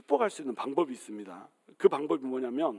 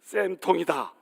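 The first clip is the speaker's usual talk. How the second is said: gleeful gloating; slower than usual. Retold or imitated. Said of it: "속으로 아까 얘기했던 것처럼".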